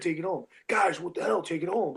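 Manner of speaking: imitating a ref's mounting impatience; exasperated ref. Ref urging the wrestlers to finish, mildly exasperated. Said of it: "the ref started getting higher".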